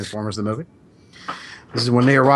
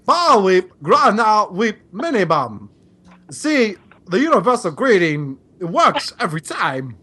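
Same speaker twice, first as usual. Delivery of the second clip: Christopher Walken; 5 semitones higher, slower than usual. Acted. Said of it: "as Christopher Walken".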